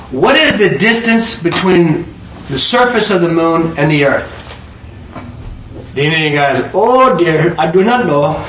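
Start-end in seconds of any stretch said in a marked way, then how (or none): 0.1-4.6 measured quizmaster. Acted. Einstein quizzing his seatmate on a flight, measured. Einstein poses question in joke. 6.7-8.4 lightly acted baffled reply; mock dismayed passenger. Indian passenger giving up on Einstein's question, mock dismay.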